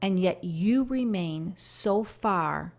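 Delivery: slow, grieving appeal fading away; pleading voice of God. Acted. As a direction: speak as a Father calling back a straying child. Voices God's lament.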